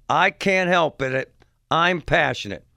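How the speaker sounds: slow, lightly voiced mock protest; father's retold comeback. Host quoting the father's comeback, mildly mocking retelling. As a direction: repeat his excuse deliberately, only lightly acted. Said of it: "And his comeback was".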